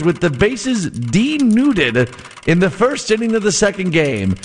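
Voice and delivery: vintage radio announcer read; old-timey radio voice. Acted. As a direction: read it like a 1920s sportscaster. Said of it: "my old-timey radio voice".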